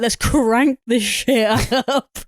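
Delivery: slow, drawn-out words at normal volume; mock relish. Girl turning up the radio show, drawn-out mock relish. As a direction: stretch out each word emphatically. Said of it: "At high volume, she was like".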